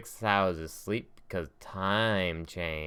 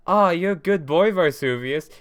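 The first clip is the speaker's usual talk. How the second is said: high, loud cooing praise; Nina's voice; 8 semitones higher, 8 dB louder than usual. Retold or imitated. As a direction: coo it like praising a pet. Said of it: "flash back to Nina just being like".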